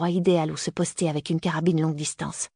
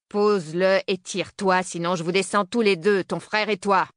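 put-on old man voice; 2 semitones higher than usual. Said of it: "Il a vraiment une voix de vieux".

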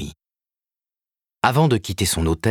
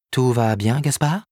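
higher, wide-eyed question; surprised concern; 6 semitones higher than usual. Acted. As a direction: ask as if you can't believe it.

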